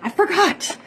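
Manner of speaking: high, sing-song forgot with a rising end; mock guilty. Shown as a demonstration. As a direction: play the guilty friend, voice jumping up on forgot. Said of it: "what a horrible friend am I".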